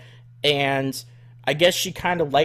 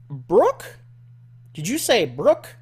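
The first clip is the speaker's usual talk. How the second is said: a touch higher, puzzled Southern voice; lightly voiced redneck lady; 4 semitones higher, 3 dB louder, slower than usual. Caller hearing her daughter's name, light redneck voice. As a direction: ask it like a surprised country mom. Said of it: "redneck woman".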